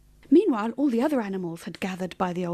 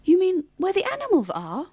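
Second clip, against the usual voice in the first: high questioning little voice; high-pitched worried query; incredulous small animal; 9 semitones higher, 4 dB louder than usual. A narrator's reading. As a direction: ask it in disbelief. Bushy asks in small voice.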